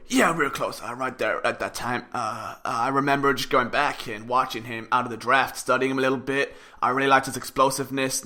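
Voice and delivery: low, soft, halting coach impression; Doug Peterson. Podcaster mimics coach talking to reporters, low muted impression. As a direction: mumble it low and quiet, like a coach at a press briefing. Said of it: "in my best Doug voice".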